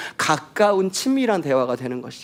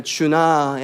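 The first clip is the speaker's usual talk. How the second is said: a gentle, tender call of a name; loving call. Shown as a demonstration. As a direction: call him the way a loving mother would. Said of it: "a loving call".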